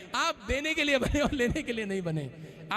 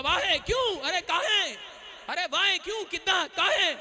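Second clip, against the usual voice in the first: higher, playful questioning neighbour; curious neighbour; 6 semitones higher, 5 dB louder than usual. Retold or imitated. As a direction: mimic a nosy neighbour, lightly. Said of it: "आपका पड़ोसी आपसे पूछेगा". (हल्के से नक़ल करते जिज्ञासु पड़ोसी)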